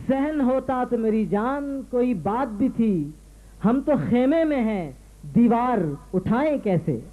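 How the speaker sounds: measured Urdu couplet recital; declaimed mushaira verse; poetry recitation. Acted. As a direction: recite verse to an audience, pausing between phrases. Host recites a couplet on stage.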